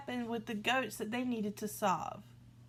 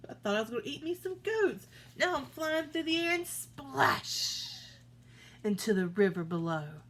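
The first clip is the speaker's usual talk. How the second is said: much higher, shocked troll voice; troll tossed off the bridge, shocked and high; startled troll; 6 semitones higher than usual. Acted. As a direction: squawk it like a troll flung through the air. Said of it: "I bet he's like".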